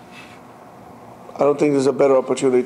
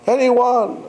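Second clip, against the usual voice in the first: calling out scared; 7 semitones higher, slower than usual. Retold or imitated. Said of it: "He starts crying".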